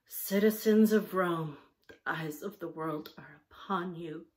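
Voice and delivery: mock Roman orator; solemn orator. Judy addressing her siblings, solemn mock oration. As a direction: proclaim it like a hammy orator. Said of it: "Judy said solemnly".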